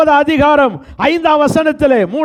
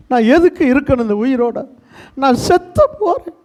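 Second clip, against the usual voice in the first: mock despairing voice. Despairing person quoted after quarrel.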